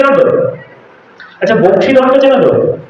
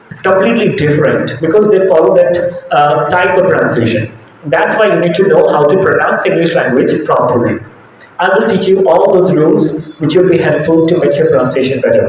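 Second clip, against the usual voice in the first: slow, put-on native-style English accent, a bit lower; changed English accent; 4 semitones lower, much slower than usual. Shown as a demonstration. Teacher testing whether students can follow, put-on English accent. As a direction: switch into a measured foreign-sounding English accent. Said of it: "I have changed it a little bit".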